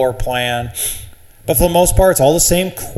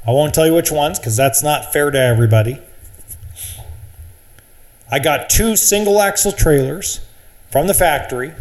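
normal talking voice

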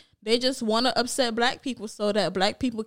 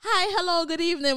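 high, prim proper English voice; posh proper English voice; 6 semitones higher than usual. Retold or imitated. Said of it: "she was like".

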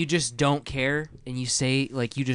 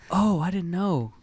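clueless lady voice; 6 semitones higher, slower than usual. Retold or imitated. Quoting the clueless old lady.

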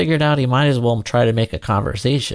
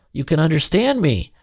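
mildly surprised, pitched up; surprised question; 6 semitones higher than usual. A narrator's reading. Surprised lion finds the boy understands him, mild amazement. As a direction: ask it with raised, surprised pitch. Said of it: "asked the equally surprised lion".

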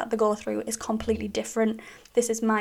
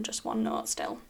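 flat monotone; 12 semitones lower, 7 dB quieter than usual. Shown as a demonstration. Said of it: "like, no up, no down".

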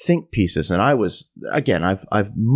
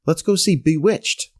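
imitating her higher-pitched suggestion; casual eager suggestion; 4 semitones higher than usual. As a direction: toss out the date idea in her higher voice.

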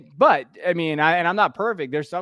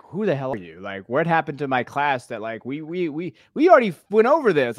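exasperated teacher; 5 dB louder than usual. Retold or imitated. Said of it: "there's days where you're like".

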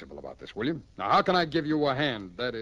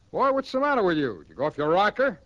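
exasperated scolding; 5 semitones higher, 5 dB louder than usual. Acted. Captain scolding jailed friend.

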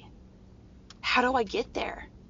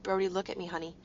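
tender reassurance. Retold or imitated. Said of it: "I looked at him and I said".

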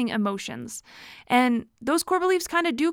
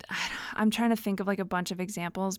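soft whisper while thinking; whispering an aside while thinking; whispered to herself; 2 semitones lower, 5 dB quieter than usual. Real, not acted. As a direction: murmur it under your breath, searching. Searching her memory for examples.

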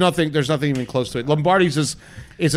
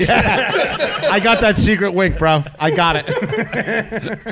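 laughing; 4 semitones higher, 3 dB louder, much slower than usual. Real, not acted. Laughing about the secret wink.

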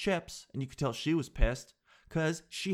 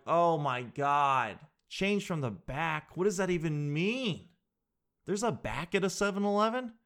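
mock disbelief; 3 semitones higher than usual. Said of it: "I'm like".

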